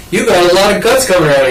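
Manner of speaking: high-pitched imitated Georgia girl; Georgia accent. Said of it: "a Georgia accent".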